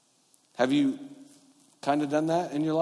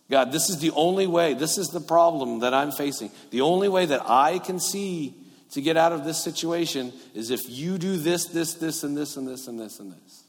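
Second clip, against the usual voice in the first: insistent instructions; 2 semitones higher than usual. Acted. Believer dictating solutions to God, insistent then fading. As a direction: start forceful, then rattle off the list, fading. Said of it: "sounds like very specific instructions".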